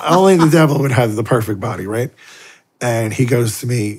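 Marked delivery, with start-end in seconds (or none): 0.1-2.1 incredulous remark. Retold or imitated. Recognizing the devil at brunch.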